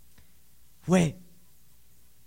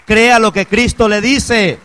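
loud urging; 3 semitones higher, 7 dB louder, slower than usual. Acted. Preacher repeats line, now loud.

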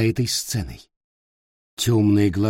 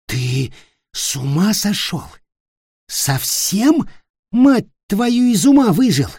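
much higher and louder cursing shriek; enraged screaming; 10 semitones higher, 4 dB louder than usual. Acted. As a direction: explode at the old man. Ulfger cursing the old elf.

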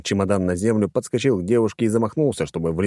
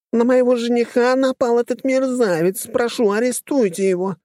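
very high, whiny plea; wailing complaint; 3 dB louder than usual. A narrator's reading. Companion wailing to the gendarmes about her fiancé. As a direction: lament to the police like a victim. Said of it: "запричитала девушка".

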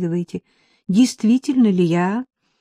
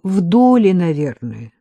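a light mocking answer, a touch louder; 5 dB louder than usual. The man mocking her silly question about the police, lightly teasing. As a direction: tease her for a naive question. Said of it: "насмешливо пояснил".

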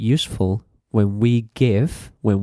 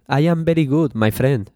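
mock Spanish accent; 3 semitones higher, faster than usual. Shown as a demonstration. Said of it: "that's Spanish".

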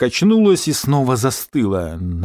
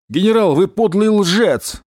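higher, slow, accusing shout; shouting into phone; 8 semitones higher, slower than usual. Acted. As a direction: hurl the accusation down the line. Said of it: "крикнул Гера в трубку". (крикнул в трубку, с вызовом)

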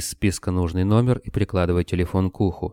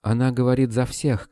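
mild shout; 5 semitones higher than usual. A narrator's reading. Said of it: "крикнула Вера".

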